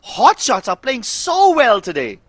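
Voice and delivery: loud, slow, high hype call; excited call. Real, not acted. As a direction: draw out the big moment. Caster calls a grenade kill.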